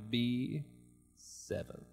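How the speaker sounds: a hint of a bored bingo caller. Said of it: "the bingo caller's like".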